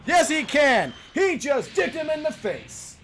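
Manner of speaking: high, exultant mock-commentator yell; triumphant hype shout. Gamer answering own question as the move lands, triumphant high shout. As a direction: crow it out, stretching the last words. Crowing over a move that landed.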